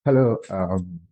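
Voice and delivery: speaking through barely opened mouth; recovering mouth, talk with lips barely moving; limited mouth opening. Real, not acted. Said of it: "making me speak in such a gentle".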